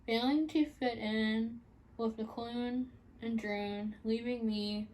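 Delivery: measured poetry reading with lilting lines; earnest spoken poem; poem recital. Acted. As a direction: recite it in deliberate phrases, pausing between lines. Reads own poem aloud.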